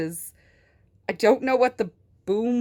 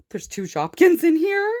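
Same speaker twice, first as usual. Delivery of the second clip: gasped surprise; 5 semitones higher, 4 dB louder than usual. Real, not acted. Gasp at finding toys.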